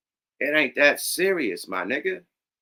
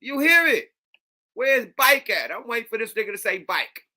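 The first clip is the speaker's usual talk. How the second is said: excited; 10 semitones higher than usual. Real, not acted. Excited mocking reaction.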